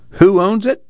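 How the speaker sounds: high-pitched challenge, rising at the end; narrated bearded man demanding an answer. A narrator's reading. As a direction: throw the question out as a challenge. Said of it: "he demanded".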